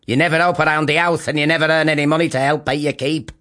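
quick, lightly voiced scolding mother; nagging mother. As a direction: rattle off the complaint. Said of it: "said his mother, Lily".

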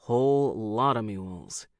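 a hint of a folksy pilot; Red Tobin shrugging. A narrator's reading. Tobin agrees wryly.

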